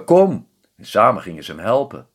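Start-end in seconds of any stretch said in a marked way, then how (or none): 0.1-0.5 high, loud call; urgent call. Acted. Stranger calling the family to come help, loud. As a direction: shout it out urgently.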